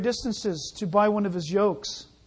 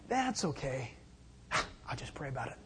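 pious brush-off; 7 semitones lower, 10 dB quieter than usual. Retold or imitated. Pious brush-off reply acted.

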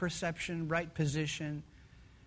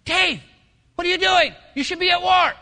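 high, loud squeaky scolding; little inner voice; 9 semitones higher, 11 dB louder than usual. Acted. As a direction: scold like a tiny conscience at full volume. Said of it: "a little small voice whispering to him".

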